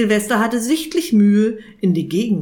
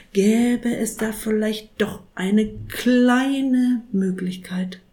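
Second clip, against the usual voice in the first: hesitant saint; 3 semitones higher than usual. Acted. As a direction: offer help reluctantly. Saint hesitantly offers help.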